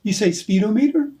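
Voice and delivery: SPEEDOMETER said speedo-MEE-ter, like altimeter; mock-British speedometer. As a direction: challenge with speedometer split as speedo plus meter. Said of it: "put the emphasis on the wrong syllable".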